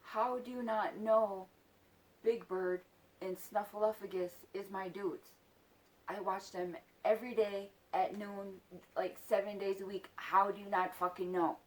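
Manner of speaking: emphatic, exasperated challenge; pissed off. Retold or imitated. Child confronting him about Sesame Street, indignant. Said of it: "And that pissed me off".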